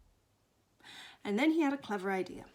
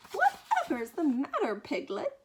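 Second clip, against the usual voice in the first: louder, higher opening that settles down; startled concern; 5 semitones higher, 6 dB louder than usual. Acted. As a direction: ask what on earth is wrong. Christopher Robin asks alarmed Piglet.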